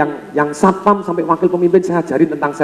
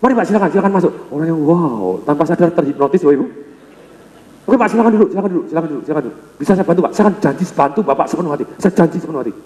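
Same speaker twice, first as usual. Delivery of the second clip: lowered calm tone; faster than usual. Retold or imitated. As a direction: bring the voice down to soothe him. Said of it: "nadanya mulai diturunkan".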